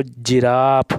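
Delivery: "जिराफ" slowly, opening on a j sound; soft G word. Shown as a demonstration. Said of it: "इसका उच्चारण जा हो रहा है".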